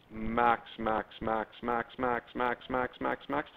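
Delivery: even, monotone run of one word; rhythmic repetition. Real, not acted. Teacher tracing a curve for the class, rhythmic monotone repetition. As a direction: softly tick the word off at a steady beat.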